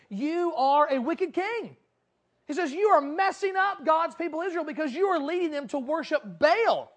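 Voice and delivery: loud, emphatic accusation; prophet's denunciation. Acted. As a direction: confront the king, hammering each word. Elijah confronting the wicked king.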